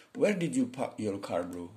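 slow model reading of an English question; English pronunciation demo. Shown as a demonstration. Teacher shows learners how a question is pronounced, slow demo reading. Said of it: "Pronunciation kan".

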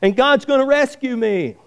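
very high, insistent declaration; mock-defiant old man; acted defiant holler.

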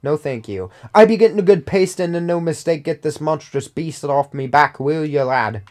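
lightly voiced sailor pirate accent; a loose stab at a pirate accent. Reading a sailor's lines in a weak pirate accent. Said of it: "I shouldn't try to do an accent".

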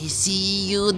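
soft, hushed imitation of a horror game voice. Gamer imitating how horror games say it, softly hushed. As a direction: murmur it up from below like a lurking thing. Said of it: "aşağıdan böyle kısık bir sesle".

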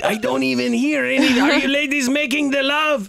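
teasing giggle. Acted. Teasing through door.

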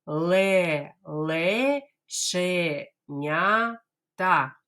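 Ле-ле-че-ня-та very slow, every syllable apart; teacher drills Ле-ле-че-ня-та slowly. Shown as a demonstration. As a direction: spell it out syllable by syllable. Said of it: "Давайте скажемо повільно".

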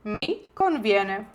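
slow, careful, stress on conviene; slow model phrase. Shown as a demonstration. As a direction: spell it out slowly to repeat. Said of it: "зі мною вимовляйте вголос".

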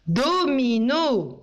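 Domino read slowly with a falling close. Shown as a demonstration. Teacher reads Domino aloud slowly for the class, falling. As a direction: draw out Domino and let it fall. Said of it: "C'est quoi ce mot?".

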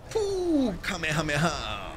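hammed-up anime attack shout; mock Kamehameha call. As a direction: yell it like a cartoon fighter.

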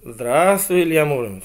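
very polite hedgehog. Acted. Hedgehog greets a hero on the road, very politely. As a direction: hail him with exaggerated courtesy. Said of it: "жил очень вежливый ёжик".

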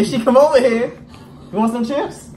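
put-on baby talk voice. Coaxing a small child.

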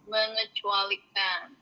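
"Mengecualikan." said slowly; carefully slow correction. Shown as a demonstration. (ucapkan "Mengecualikan." pelan-pelan)

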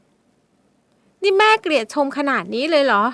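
high, slow, hurt question; asking in tears. Acted. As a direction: ask through tears. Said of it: "เธอถามทั้งน้ำตา".

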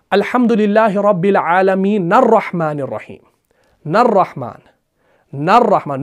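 verse recited with "नर्रहमान" joined on the nun; Quranic recitation. Shown as a demonstration. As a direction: chant the verse, linking into "नर्रहमान". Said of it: "नून को रॉ के साथ मिलाया".

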